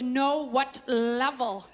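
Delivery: slow, drawn-out impatient correction; mock impatience, stretched word by word. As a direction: spell it out, imitating an exasperated clerk. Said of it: "she got all impatient".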